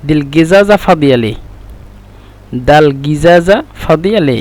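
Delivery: গিজাজা with a hard g; Egyptian pronunciation. Shown as a demonstration. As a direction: say দাল গিজাজা ফাদিয়ালে the Egyptian way. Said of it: "ওরা উচ্চারণ করে মিশরের ভাষায়".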